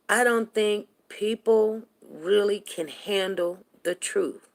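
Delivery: measured words, falling away at the end; slow, deliberate. Real, not acted. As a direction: spell it out slowly, weighing each phrase. Repeats her claim, first time deliberately.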